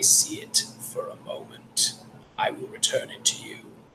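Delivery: raspy, whispered voice. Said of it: "And the voice says".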